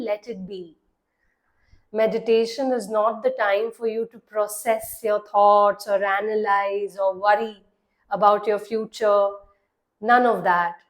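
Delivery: measured meditation voice with long pauses; guided meditation. Acted. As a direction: guide the listener into relaxing, leaving long silences between phrases. (calm guided-meditation delivery)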